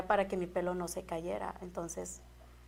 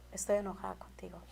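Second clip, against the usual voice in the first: subdued retold anger; 5 dB quieter than usual. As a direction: quietly tell him you're cross. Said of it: "ese día yo me acuerdo que me cambié y le dije".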